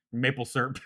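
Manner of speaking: "syrup" squeezed into one syllable, serp; southern twang. Shown as a demonstration. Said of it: "pronounce it in a southern twang".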